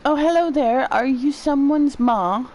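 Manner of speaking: a hint of a curious little character; curious game character. Voicing a game character's greeting.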